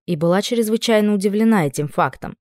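ordinary delivery

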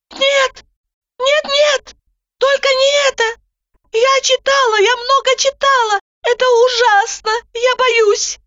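high, frantic, terrified pleading; panicked refusal. A narrator's reading. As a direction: beg in panic. Zhanna panics, waving hands.

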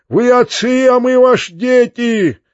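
very high, stretched-out plea; wailing peasant chorus. A narrator's reading. Peasants call their masters fathers, a wailing plea. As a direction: cry out as a pleading village crowd. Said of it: "завопили вдруг мужики целым хором".

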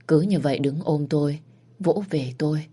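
usual speaking voice

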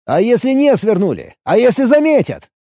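urgent, high and loud; desperate. A narrator's reading. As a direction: near despair, pleading. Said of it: "почти в отчаянии проговорил я".

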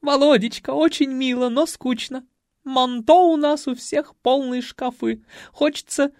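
high, loud condescending coo; bored grande dame. A narrator's reading. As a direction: wave off the gift. Spoiled ladies dismiss gift.

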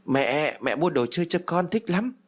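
put-on high, chirpy little boy calling his mother; a ghost child piping up happily; shrill child voice. A narrator's reading. Little ghost son to his mother, high and chirpy. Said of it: "một tiếng nói léo nhéo".

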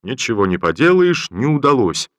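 cheerful cynical general's quip. Acted. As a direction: toss off a cheeky old joke. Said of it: "прибавил он весёлую и циничную фразу".

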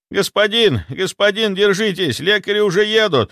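high, loud, frantic butler's cry; panicked butler crying for help; panicked shout. A narrator's reading. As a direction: call out to him in panic. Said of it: "в панике закричал дворецкий".

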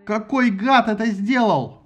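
yelling. Acted. Ajax demanding who rigged the vote, slow angry yell. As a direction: roar it with outrage. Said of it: "орал Аякс".

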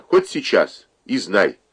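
furious mother disowning her daughter; mother's angry shout. Acted. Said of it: "крикнула она".

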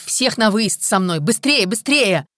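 loud, high-pitched, drawn-out orders; urgent command. A narrator's reading. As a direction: shout to get everyone moving. Boss rushing everyone out.

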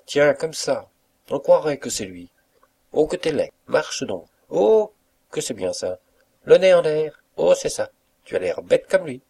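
high-pitched gleeful cook; laughing cook. A narrator's reading. Cook egging on the valet as he mimics his master, high and gleeful. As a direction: cheer on the impression in a high, teasing voice. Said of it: "La rieuse cuisinière".

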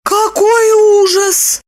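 high, loud, slow moan; moaning horror. A narrator's reading. Lipochka horrified at Roman's secret. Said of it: "простонала Липочка".

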